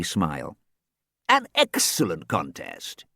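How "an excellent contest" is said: purred. Acted. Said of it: "he purred".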